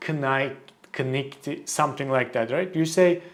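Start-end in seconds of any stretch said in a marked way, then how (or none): 0.1-1.7 knight with the k sounded; wrong reading. Shown as a demonstration. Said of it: "You don't say".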